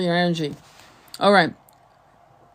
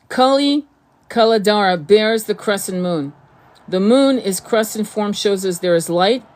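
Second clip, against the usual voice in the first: a louder, formal card reading; reading aloud; 4 dB louder than usual. Acted. Spiritual teacher reads an oracle card to her viewers, formally. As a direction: read the oracle text like a proclamation.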